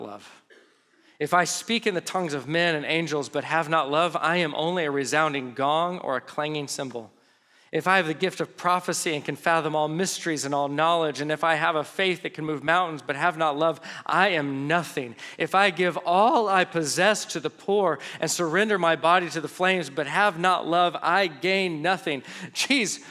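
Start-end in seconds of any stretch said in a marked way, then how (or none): 1.2-13.8 measured, solemn reading of a passage; scripture reading. Acted. Reads the scripture passage aloud. 15.4-22.2 measured, solemn reading of a passage; scripture reading. Acted. Reads the scripture passage aloud.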